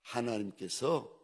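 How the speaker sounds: hushed, low and solemn father; Abraham. Acted. Abraham looking at the son to be offered, quietly solemn. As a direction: answer softly and low, slowing on the last word. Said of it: "아들 이삭을 보면서 이리 말합니다".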